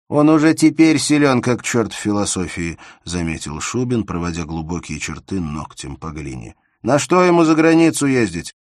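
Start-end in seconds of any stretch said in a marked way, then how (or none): 0.1-2.8 high, loud mocking quip; Shubin's teasing voice. A narrator's reading. Sculptor Shubin teasing Bersenev, high loud mockery. 6.8-8.5 high, loud mocking quip; Shubin's teasing voice. A narrator's reading. Sculptor Shubin teasing Bersenev, high loud mockery.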